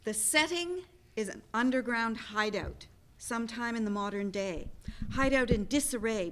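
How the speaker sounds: steady, even reading of the scene; stage direction reading. Acted. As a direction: read the setting to the audience. Reads stage directions aloud.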